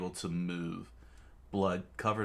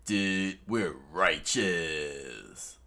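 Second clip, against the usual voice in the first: cheesy grin; much slower than usual. Acted. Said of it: "his trademark cheesy smile".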